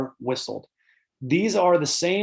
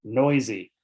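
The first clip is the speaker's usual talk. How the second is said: whispered; 3 dB louder than usual. Shown as a demonstration. Describing harsh noisy bird sounds.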